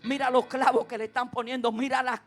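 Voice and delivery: a weeping mother's cry, swelling; grieving mother at the cross, building to a loud cry; mother's lament. Retold or imitated. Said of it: "quizá lloraba y decía".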